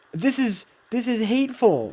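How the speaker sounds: mock offended voice. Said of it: "I'm not, like, you know".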